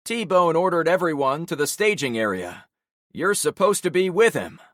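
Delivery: a store boss, put out and demanding; Javon's voice. Acted. Javon voiced in audiobook scene.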